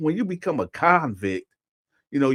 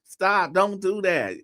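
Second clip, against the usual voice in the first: high, raised voice imitating a protest; louder overheard protest; 7 semitones higher, 4 dB louder, much slower than usual. Overheard man in the prison bathroom, imitated loud protest. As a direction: cry out stop as the overheard man. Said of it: "it get louder and louder".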